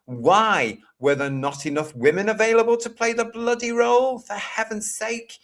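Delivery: real exasperation, pitched high; exasperated. Real, not acted. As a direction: protest in disbelief, pitch climbing and staying up. Exasperated rant about casting choice.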